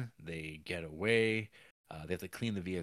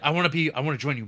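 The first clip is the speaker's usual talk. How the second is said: eager plea; 7 semitones higher, 10 dB louder, much faster than usual. Retold or imitated. Pleading to join retold.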